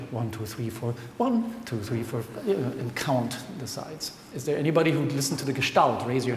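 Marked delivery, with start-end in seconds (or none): 0.1-2.2 counting aloud. Shown as a demonstration. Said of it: "did you actually go like".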